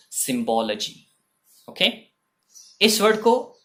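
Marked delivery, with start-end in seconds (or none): 0.1-1.1 "सिंबोलॉजी" slowly as sim-BO-luh-jee; careful pronunciation. Shown as a demonstration. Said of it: "और बोलते हैं इसको".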